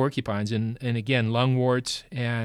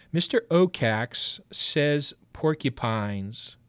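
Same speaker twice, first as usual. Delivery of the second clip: slow and clear, word by word; slow dictation; slower than usual. Shown as a demonstration. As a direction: dictate it slowly for writing. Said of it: "here's what I want you to write".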